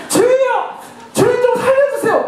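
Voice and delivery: high-pitched, urgent cry to God; acted desperate cry for rescue; desperate plea. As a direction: beg for your life in acted prayer. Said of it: "막 이렇게 간절하게 나오는 거예요".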